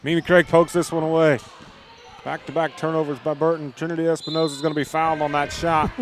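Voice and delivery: lifted, punchy basketball call; live play-by-play. Real, not acted. Announcer calling a steal and a foul to listeners, animated play-by-play. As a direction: call the action with rising energy.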